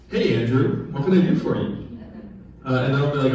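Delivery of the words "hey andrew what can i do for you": lightly voiced, smooth helpful bot; friendly AI assistant. Shown as a demonstration. A future customer service bot greets the caller, lightly voiced and cheerful. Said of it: "the bots sounding like this".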